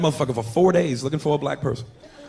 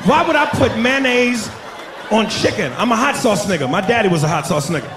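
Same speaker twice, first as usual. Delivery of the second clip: indignant rant; 5 semitones higher than usual. Retold or imitated. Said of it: "I said".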